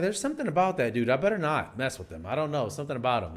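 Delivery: lightly voiced nervous guy on street; wary onlooker voice. Imagined guy sizing him up.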